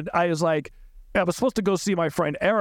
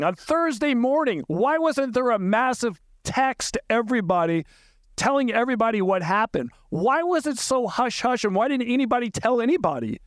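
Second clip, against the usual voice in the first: pitched higher, incredulous, pressing each question; indignant demand; 4 semitones higher than usual. Retold or imitated. Confronting Charles's sister about the silence, indignant higher pitch. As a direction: retell it as if still demanding answers.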